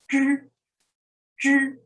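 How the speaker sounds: zhi with the tongue rolled back; teacher demonstrating zhi; retroflex zhi. Shown as a demonstration. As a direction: say zhi slowly and clearly, tongue curled. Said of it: "number seventeen is zhi".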